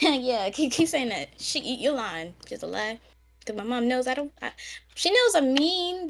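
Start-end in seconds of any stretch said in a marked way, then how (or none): 0.0-3.0 teasing mom. Retold or imitated. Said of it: "my mom's like".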